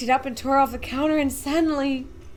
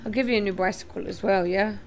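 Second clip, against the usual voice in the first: lower, soft, conspiratorial voice; sly low bargainer; 5 semitones lower, 3 dB quieter than usual. A narrator's reading. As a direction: tempt the boy quietly. Tall man's sly offer.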